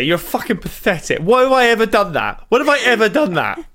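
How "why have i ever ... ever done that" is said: higher-pitched, incredulous questions; indignant protest. Real, not acted. Co-host objects to being mimicked, indignant. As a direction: push back, pitch rising in disbelief. Teased man protests the impression.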